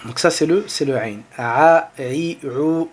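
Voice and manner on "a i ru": A, i, ru articulés depuis la gorge; modèle à répéter par les élèves; voyelles du ayn. Shown as a demonstration. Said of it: "entraînez-vous à prononcer". (ayn prononcé pour l'exercice)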